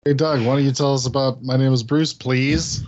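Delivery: exaggeratedly polite request, lifting at the end; asking nicely. Shown as a demonstration. Host re-asking Doug to tell about the movie, nicely. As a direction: ask sweetly, with a pleading rise on the last words. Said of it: "Ask nicely".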